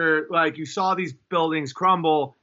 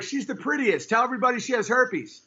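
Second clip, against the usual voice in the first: mock catty women; 5 semitones higher than usual. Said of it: "women are like".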